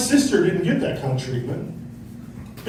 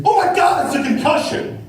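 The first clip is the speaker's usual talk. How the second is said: higher, louder mock panic; 9 semitones higher, 3 dB louder than usual. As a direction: gasp it out like a panicked parent. Contrast: panicked new attitude.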